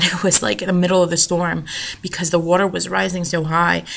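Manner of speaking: ordinary talk, nothing marked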